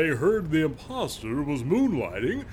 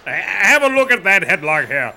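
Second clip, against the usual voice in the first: crying with rage; 6 semitones higher, 7 dB louder than usual. Acted. Arrest, Democracy Manifest parody.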